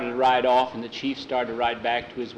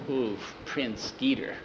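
slow, softer mock of "Prince Skeeter"; scoffing; 6 dB quieter, slower than usual. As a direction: drag out "Oof, Prince Skeeter" with mild disdain. Jackie looked over and frowned.

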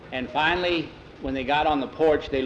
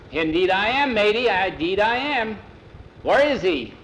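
high, loud seafarer's hail; hearty sea captain; 6 semitones higher, 4 dB louder than usual. A narrator's reading. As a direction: greet them like a jolly old salt. Sea captain answers the boys.

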